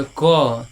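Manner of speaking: क said loud and clear as "kə" with a ringing vowel; clear demo sound. Shown as a demonstration. Teacher to students, a clear demo of क. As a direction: sound क out so the अ shows. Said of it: "ध्यान से सुनिएगा".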